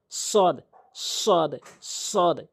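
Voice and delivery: long, heavy "সদ", each separate; model "সদ". Shown as a demonstration. Teacher models the letter for learners, long emphatic "সদ". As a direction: draw out "সদ" with a strong s. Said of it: "এভাবে".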